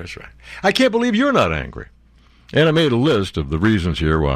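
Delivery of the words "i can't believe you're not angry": high, exasperated disbelief; incredulous. Real, not acted. Angry host to complacent listeners, incredulous. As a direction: marvel at them in a raised pitch.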